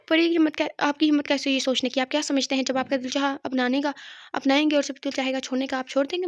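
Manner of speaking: shouting in outrage; furious. Acted. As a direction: lash out at him in rage. Pari furious after slapping Burhan.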